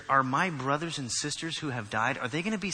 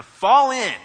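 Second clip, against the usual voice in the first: loud drill-sergeant call, drawn out; shouted command; 9 semitones higher, 12 dB louder than usual. Acted. Preacher voicing a command to troops, shouted. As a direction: bellow the order to the troops. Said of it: "is shouted".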